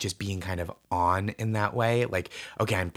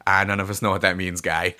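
put-on Boston accent; 5 dB louder than usual. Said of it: "the people in Boston are like".

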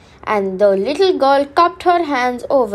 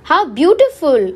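breathless wonder; 4 semitones higher, 4 dB louder than usual. Acted. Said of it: "breathed the little girl".

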